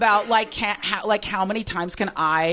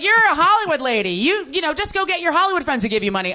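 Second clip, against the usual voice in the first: mock encouraging voice; 6 semitones higher than usual. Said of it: "everyone's like".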